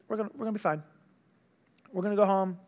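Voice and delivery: imitated calm assurance. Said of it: "We got peace".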